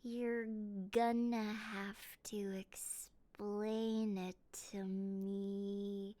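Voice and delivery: hushed whisper, slow. Real, not acted. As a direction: lean in and whisper it. Whispering while watching video.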